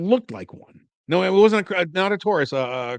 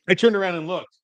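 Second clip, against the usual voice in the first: higher voice, mildly worked up; mild exasperation; 7 semitones higher than usual. Retold or imitated. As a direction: retell it with raised pitch. Retold turn, first take.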